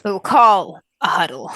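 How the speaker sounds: words broken by laughter; slow, laughing delivery. Real, not acted. Laughing while speaking.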